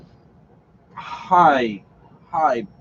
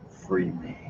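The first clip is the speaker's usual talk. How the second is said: demonic voice; 8 semitones lower, 13 dB quieter than usual. A narrator's reading. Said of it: "A deep, dark, demonic voice".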